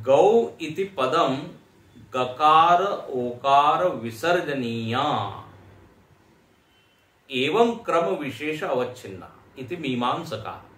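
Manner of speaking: slow, measured chant of the commentary; slow Sanskrit recitation. Acted. Teacher reciting the commentary to students, slow chanted recitation. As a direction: intone each word slowly like scripture.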